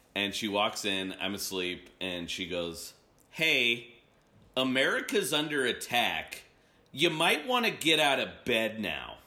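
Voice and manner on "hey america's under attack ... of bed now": pointedly offhand, passive-aggressive mother-like tone. Retelling how mom woke them while they were asleep: imitating mom's passive-aggressive tone. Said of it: "the most passive-aggressive mom thing".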